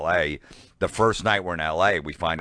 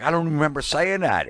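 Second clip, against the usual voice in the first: much higher mock Dice; Dice impression; 10 semitones higher than usual. Dice hearing fans recite his bits, high mock voice. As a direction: imitate Dice puzzled by his old bits. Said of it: "He's like".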